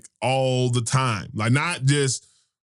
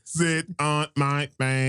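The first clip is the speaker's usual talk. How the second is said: slow, drawn-out imitation; slow quote imitation; slower than usual. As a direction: drag the quote slowly. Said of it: "he said it just like that".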